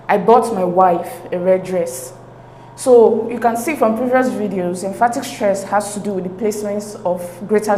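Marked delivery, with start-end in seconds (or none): 0.1-2.1 "wife" stressed within the sentence. Shown as a demonstration. Teacher reads the exam sentence to learners, stress on "wife". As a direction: put the emphatic stress on "wife". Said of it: "the stress is placed on the word wife".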